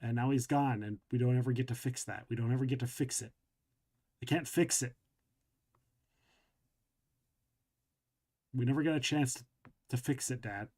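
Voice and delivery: starts strong, then sinks into subdued regret; grieving regret. Acted. Ronnie regrets to Dad being angry at one who's gone, grieving. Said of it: "stop and probably start crying".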